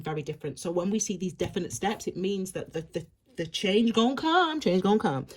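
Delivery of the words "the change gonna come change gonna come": "change gonna come" in a put-on American accent. Shown as a demonstration. Tarot reader slipping into an American accent for a catchphrase. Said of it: "say it in an American accent".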